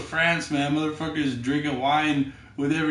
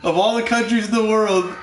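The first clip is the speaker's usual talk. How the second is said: high, loud, hammed-up exasperation; mock exasperation; 5 semitones higher, 4 dB louder than usual. Retelling his dismay at the puking Canadian, mock exasperation. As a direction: complain loudly, playing up the dismay.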